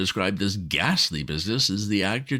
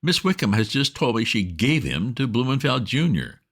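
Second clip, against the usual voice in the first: put-on agitated young master; 6 semitones higher than usual. A narrator's reading. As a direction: splutter the news at the butler. Bertie agitated to Jeeves.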